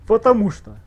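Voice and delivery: high, loud exasperated yelling; excited yelling. Real, not acted. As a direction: yell it in disbelief. Stream outburst at enemy.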